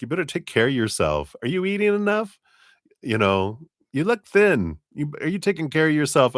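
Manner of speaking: fussing New York grandmother, pitched high, fast at the end; a hint of a New York Jewish grandma nagging; Jewish grandmother New York accent. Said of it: "a Jewish grandmother, like, New York accent".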